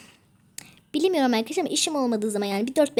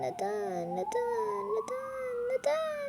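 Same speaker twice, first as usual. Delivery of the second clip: rising; 11 semitones higher, 6 dB quieter, much slower than usual. Pretend. Repeats neden climbing in pitch.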